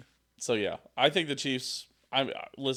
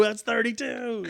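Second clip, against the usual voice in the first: mock slow correction; 11 semitones higher, slower than usual.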